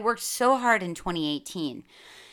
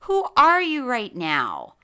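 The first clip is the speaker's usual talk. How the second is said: disbelieving self-question; 8 semitones higher, 6 dB louder, slower than usual. Retold or imitated. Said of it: "at myself thinking".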